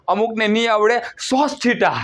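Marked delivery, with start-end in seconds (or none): 1.3-2.0 laughing "સોસ થીટા" with an s in place of the k; amused "સોસ" said with a laugh; mock wrong pronunciation. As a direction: tease a pupil who says "સોસ". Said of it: "સોસ નથી".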